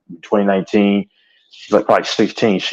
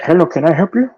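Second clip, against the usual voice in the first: high mock Indian accent on Hello can I help you; mock Indian call center accent; 9 semitones higher than usual. Quoting a call center agent in a high mock Indian accent. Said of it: "whenever you hear that accent".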